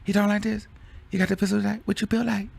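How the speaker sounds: calm rapper impression. Imitating the rapper sizing up a man, calm and high. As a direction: lightly mimic him, unbothered and even. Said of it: "That's how he said it".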